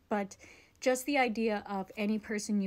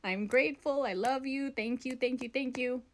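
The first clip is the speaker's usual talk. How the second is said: higher, gushing thanks to the angels; grateful thank you; 4 semitones higher, slower than usual. Shown as a demonstration. Vlogger shows viewers what to tell their angels, higher and grateful. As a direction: pour out thanks, lifted and sincere. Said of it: "Don't forget to say".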